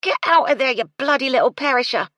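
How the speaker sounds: loud, high angry yell at the cat. A narrator's reading. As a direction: shout it while jabbing with the broom. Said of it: "she yelled".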